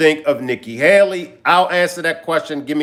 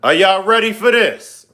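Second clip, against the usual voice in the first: hyped teaser to viewers; clickbait video narrator; 2 semitones higher than usual. Acted. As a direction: build up the suspense. Hyping viewers before clip.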